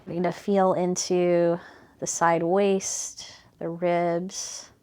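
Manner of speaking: calm, even body-scan guidance with unhurried phrasing; guided meditation. Real, not acted. Teacher guiding students' attention from heels up to shoulders, guided meditation. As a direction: gently lead attention through the body, leaving space between phrases.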